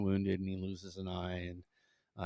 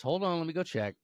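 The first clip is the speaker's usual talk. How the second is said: higher, a touch of impatience; mildly annoyed; 8 semitones higher than usual. Acted. Mother Superior bothered by leprechaun, mildly annoyed. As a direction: put up with it, barely. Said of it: "she's kinda mad".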